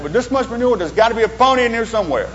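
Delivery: put-on high, hopeful kid's punchline; eager boy. Optimist boy to his parents, high and eager. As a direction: say it with eager childish hope.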